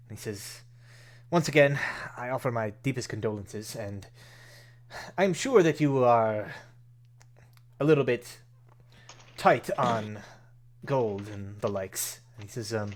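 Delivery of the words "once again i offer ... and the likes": lightly voiced formal benefactor, measured with pauses; consoling Rainier. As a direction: offer sympathy carefully, in a lightly acted formal voice. Voices Rainier offering condolences.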